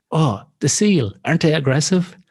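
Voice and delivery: imitating the nervous friend's question; anxious friend. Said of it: "And she goes".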